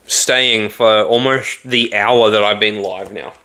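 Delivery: talking while crunching ice; words around a mouthful of ice. Real, not acted. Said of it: "I'm crunching on ice".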